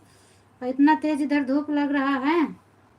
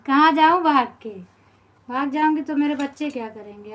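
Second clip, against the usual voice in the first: exasperated outburst; 7 dB louder than usual. Real, not acted. To the viewer telling her to run off, loud exasperated retort. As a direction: throw the question out, fed up and loud.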